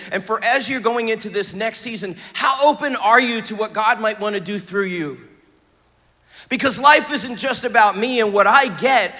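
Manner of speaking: earnest, driving sermon delivery; emphatic preaching. Real, not acted. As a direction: preach it with punch on the key words. Preaches with force to congregation.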